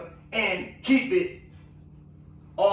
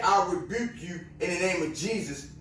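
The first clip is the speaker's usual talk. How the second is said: imitating her rebuke, noticeably softer; soft quoted rebuke; 4 semitones lower, 6 dB quieter than usual. Woman quietly rebuking the cop, softly spoken. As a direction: hush it down, quote her calmly.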